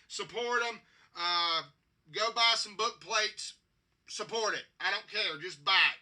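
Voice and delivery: rally the fans to buy the book; loud urging. Real, not acted. Vlogger urging fans to support the book, loud and insistent.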